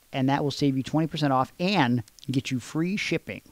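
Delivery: smooth sponsor pitch voice; ad read. Acted. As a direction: sell it like a podcast ad.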